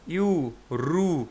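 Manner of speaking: ইউ, রু stretched very slowly, long উ at the end; drawn-out syllables. Shown as a demonstration. Teacher stretching the last উ sounds, slow. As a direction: draw out রু slowly. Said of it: "সবকটা word উ".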